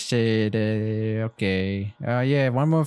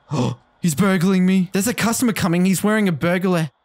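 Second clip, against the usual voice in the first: louder, higher, rushed alarm; alarmed excitement; 5 semitones higher, 3 dB louder than usual. Real, not acted. Spotting a masked stranger coming to the store, in loud alarmed excitement. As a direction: react to a burglar walking up.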